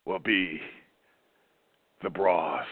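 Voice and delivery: mock French accent, pompous; hammed-up French detective accent, pauses for effect. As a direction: boast like a self-important French sleuth. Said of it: "that sounds like a, a French detective".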